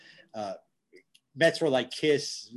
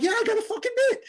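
excited; faster than usual. Retold or imitated. Retelling thrilled reply to Yankee star.

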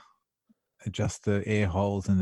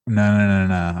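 loud; 7 dB louder than usual. Real, not acted. Emphatic denial.

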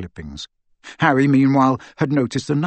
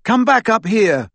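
raised, high-pitched call; 10 semitones higher, 6 dB louder than usual. A narrator's reading. Harry calls Hermione back up the stairs, calling out.

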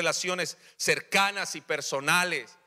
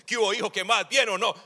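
mock cool dad; 4 semitones higher, faster than usual. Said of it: "nos portamos como tontos".

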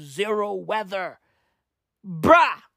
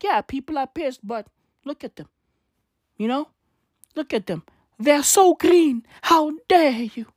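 Greta impression; 5 semitones higher than usual. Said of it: "she'd be like".

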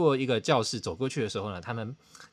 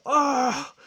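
high sudden "ah" of dismay; inner horrified cry; 12 semitones higher, 6 dB louder than usual. Retold or imitated. Realizing he taught it wrong, a high horrified cry. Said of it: "我心里就想说".

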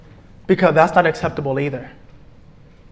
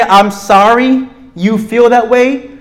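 mocking quote; 4 semitones higher, 3 dB louder, slower than usual. Shown as a demonstration. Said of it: "When you say".

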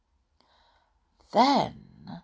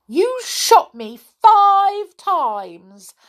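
high, slow, wounded complaint; hammed-up storybook reproach; hurt voice; 9 semitones higher, 6 dB louder, much slower than usual. A narrator's reading. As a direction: complain as a wronged doll. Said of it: "in a hurt voice".

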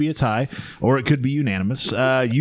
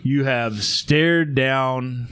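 dramatic narration; slower than usual. Acted. Mock epic movie-trailer narration.

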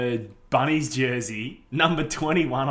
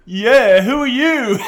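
puzzled bloke; 9 semitones higher, 9 dB louder, slower than usual. Retold or imitated. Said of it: "He's like".

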